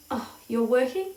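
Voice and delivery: lightly voiced German professor, curious rise; a hint of a German accent, asking if she's working. A narrator's reading. German caller asks if she is working, mild German accent. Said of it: "said a man with an accent".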